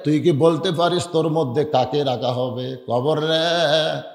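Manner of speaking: preacher acting a heartfelt address; emotional. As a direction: call out to the grave with swelling feeling. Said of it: "এক সময় আবেগে বলতেছে".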